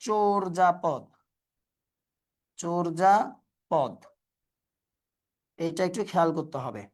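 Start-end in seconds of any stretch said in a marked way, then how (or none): 0.1-1.0 slow model of "চর্যাপদ" as chor-ja-pod; pronunciation demo. Shown as a demonstration. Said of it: "এটার উচ্চারণ কিন্তু আবার". 2.6-3.9 very slow "চর্যাপদ", broken as chorja, pod; pronunciation demo. Shown as a demonstration. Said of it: "এটার উচ্চারণ কিন্তু আবার".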